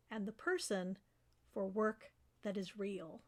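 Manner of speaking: measured reading with pauses after each line; poem recitation. Acted. Professor reads students a poem to encourage them, measured recitation. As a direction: recite it line by line, letting the phrases settle.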